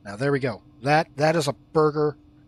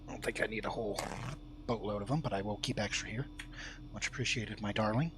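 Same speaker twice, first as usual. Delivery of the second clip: quiet, gentle words to a pet; soft and tender; 4 semitones lower, 11 dB quieter, faster than usual. Real, not acted. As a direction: murmur it tenderly. Thanking bird softly.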